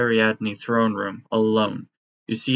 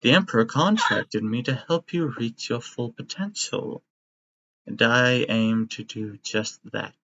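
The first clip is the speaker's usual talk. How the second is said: sinister doctor. Acted. GM voices bird-skull doctor.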